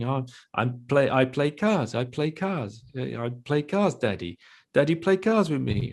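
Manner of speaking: a hint of a toddler asking Daddy to play; imitating a toddler. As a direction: play his small son chatting about cars. Dad voicing toddler on phone.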